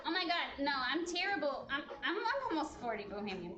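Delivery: laughing through the words. Real, not acted. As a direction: giggle at yourself while saying it. Laughing at herself on stream.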